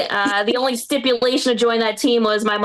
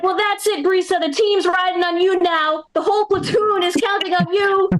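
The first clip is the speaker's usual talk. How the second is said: higher-pitched mock sergeant pep talk; yelling grandfather; 5 semitones higher than usual. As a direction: imitate a grandfather rallying the troops. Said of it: "my grandfather would start yelling".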